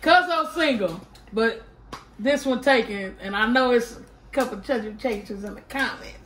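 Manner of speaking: tipsy and giggling. Real, not acted. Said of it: "I'm a little tipsy".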